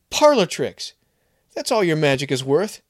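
high, loud contemptuous yell. Acted. Kevin yelling at Maria before smashing the jar. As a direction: spit the insult as a shout. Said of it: "I whirled a yell at her".

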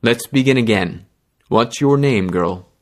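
gentle. Acted. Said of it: "voice grew infuriatingly gentle".

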